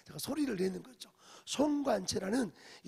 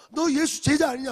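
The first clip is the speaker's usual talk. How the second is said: loud, higher accusing question; accusing shout; 7 semitones higher, 14 dB louder than usual. Retold or imitated. Servant girl presses Peter, loud accusing shout. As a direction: demand an answer, shouting.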